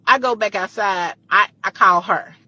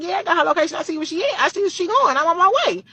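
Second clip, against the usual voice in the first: fired up; 9 semitones higher, faster than usual. Retold or imitated. Fired up, chasing her friend.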